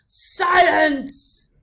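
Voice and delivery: loud, commanding roar. A narrator's reading. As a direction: silence the room. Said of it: "roared the most very honored head mouse".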